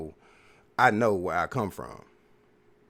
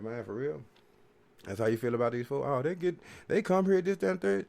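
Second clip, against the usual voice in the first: incredulous retort; 5 semitones higher than usual. Retold or imitated. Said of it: "I was like".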